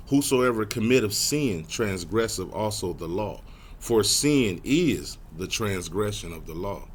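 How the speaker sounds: measured, emphatic verse reading; scripture reading. Real, not acted. Preacher reading scripture to define sin, measured and deliberate. Reads scripture aloud to congregation.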